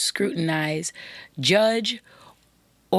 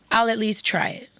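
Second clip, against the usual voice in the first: whispered quote; 4 semitones higher than usual. Pretend. Host voicing what listeners should say, whispered. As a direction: whisper the promise. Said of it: "I want you to say".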